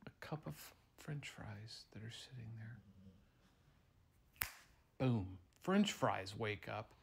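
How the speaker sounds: ordinary delivery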